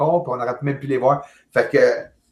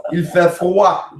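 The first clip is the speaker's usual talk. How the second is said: higher, mock-proper France French accent; 4 semitones higher, 3 dB louder, much slower than usual. Shown as a demonstration. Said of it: "que tu m'apprennes à parler le français, le bon français".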